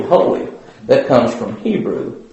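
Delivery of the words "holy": "holy" the third time sung up high; third holy lifted. Shown as a demonstration. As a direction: climb up on the last "holy". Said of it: "we say".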